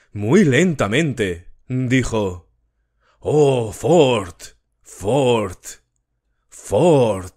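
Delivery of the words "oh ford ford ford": an otherworldly voice sighing the name downward; descending, fading scale. A narrator's reading. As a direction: let the name sink and fade away. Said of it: "en una escala que descendía y disminuía gradualmente".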